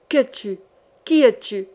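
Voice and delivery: forceful, insistent questioning; supreme willpower. Acted. Sorcerer commands the corpse to name itself. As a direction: demand an answer with all his will. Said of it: "avec un suprême accent de volonté".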